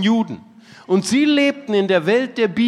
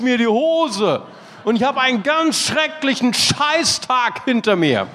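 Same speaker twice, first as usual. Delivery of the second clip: exasperated complaint; 2 semitones higher than usual. Retold or imitated. Klaus's complaint acted out.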